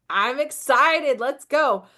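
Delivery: slow, excited and upbeat; high vibes. Shown as a demonstration. Demoing high energy for her viewers, excited. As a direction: pump it up like a hype intro. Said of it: "showing up with high vibes".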